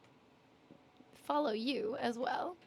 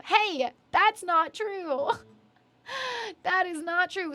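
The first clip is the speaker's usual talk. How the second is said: slow, drawn-out, raised playful protest; mock indignation; 5 semitones higher, 4 dB louder, much slower than usual. Real, not acted. Streamer objects to being teased about her ID, mock indignant. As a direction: protest the teasing, higher and louder.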